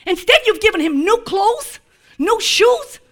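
fast, laughing disbelief; incredulous. Acted. Preacher mocking objections to the father's mercy, fast and laughing. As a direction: rattle it off in mock outrage.

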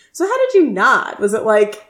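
excited question. Retold or imitated. Retelling Eric asking about nod.

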